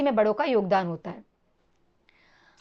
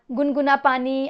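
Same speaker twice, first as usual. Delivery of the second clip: put-on baby talk; slower than usual. Shown as a demonstration. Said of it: "अपन ऐसा बोलते हैं ना".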